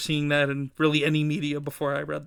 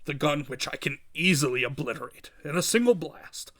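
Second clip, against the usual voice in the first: lightly voiced crime boss, coolly superior; a hint of a smug villain, measured; Kingpin gloating. Kingpin gloats over hidden gun.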